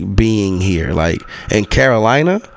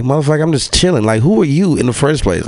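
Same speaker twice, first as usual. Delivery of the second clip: mock annoyed retort; 5 semitones higher, faster than usual. His retold annoyed retort.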